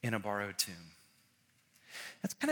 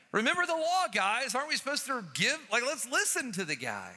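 urgent appeal; 8 semitones higher, 4 dB louder than usual. Retold or imitated. Urging fellow Pharisees.

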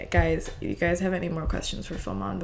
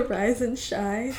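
Kylie Jenner rise and shine; 4 semitones higher, much slower than usual. Retold or imitated. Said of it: "the Kylie Jenner version".

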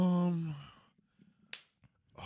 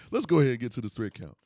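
quicker and louder with a laugh; louder, faster redo; 4 semitones lower, 6 dB louder, faster than usual. Shown as a demonstration. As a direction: punch the line out again. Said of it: "repeats line faster, louder".

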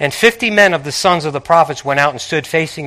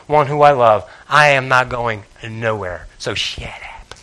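Tony's blunt inner retort; 3 semitones lower than usual. Retold or imitated. Elisha brushing off the prophets, low and dismissive. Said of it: "that would be my".

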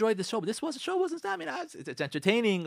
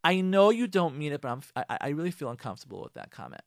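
gentle feedback; 3 semitones lower than usual. Shown as a demonstration. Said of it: "Say to him".

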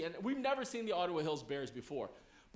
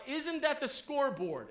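lightly called-out cheer, pitched up; cheerleader cry; 5 semitones higher than usual. Retold or imitated. Cheerleaders call out to the gym, raised imitation of a cry. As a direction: imitate a cheerleader calling to the crowd. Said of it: "They would cry out".

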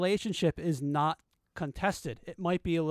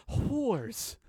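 Frank impression; 6 semitones higher than usual. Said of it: "Frank on Always Sunny when he says".

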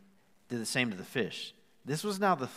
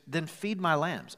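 firm command; 5 semitones higher, 4 dB louder, slower than usual. Retold or imitated. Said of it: "He goes".

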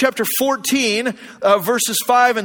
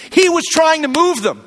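higher, louder, driving the point home; forceful climax; 6 semitones higher, 4 dB louder than usual. Real, not acted. Preacher driving home the point to the congregation, loud. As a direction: hit it like the punchline of the sermon.

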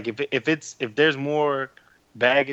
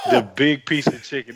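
exaggerated cartoon intonation; 4 dB louder than usual. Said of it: "this ain't the fucking seventies".

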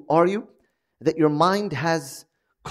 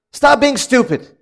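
higher, louder, slow put-down; blunt put-down; 7 semitones higher, 6 dB louder, slower than usual. Retold or imitated. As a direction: hammer home the rebuke, slowly. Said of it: "all he told his brother was".

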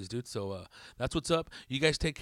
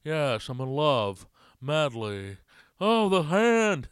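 drawn-out melodramatic lover, lightly imitated; Nick Cage; 5 dB louder, much slower than usual. Comic spoofing Moonstruck, slow hammy actor impression. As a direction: stretch it slowly, rising to a mock wail. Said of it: "I just seen him in Moonstruck".

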